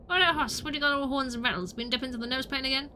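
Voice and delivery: lightly voiced cowboy, brisk; a hint of western swagger; old-West cowboy. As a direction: talk like a frontier cowpoke. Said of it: "Gabby does not talk like that".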